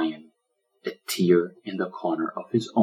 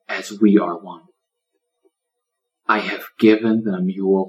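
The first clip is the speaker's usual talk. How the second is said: 1 prayer. Acted. Lion prays over turtle.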